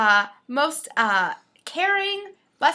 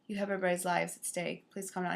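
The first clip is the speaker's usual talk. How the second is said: low, quiet mock plea; hushed plea; 6 semitones lower, 10 dB quieter, faster than usual. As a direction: quietly imitate a plea for calm. Acting out lady pleading with driver.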